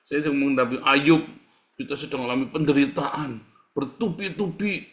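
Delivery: hammed-up pious moaning; melodramatic sufferer. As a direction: ham up the self-pity. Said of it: "sedikit alay, sedikit lebay".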